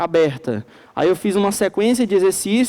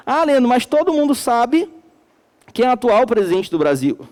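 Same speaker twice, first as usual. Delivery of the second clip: higher, mock student protest; objecting student; 3 semitones higher than usual. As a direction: play a student pushing back at the teacher. Imagined student objecting to teacher. (aluno retrucando ao professor, voz mais aguda)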